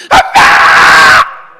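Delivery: long, high, very loud wail; mock wailing. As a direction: imitate a daughter bawling at a funeral. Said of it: "이렇게 울어요". (딸이 통곡하듯 길게 울부짖는 흉내)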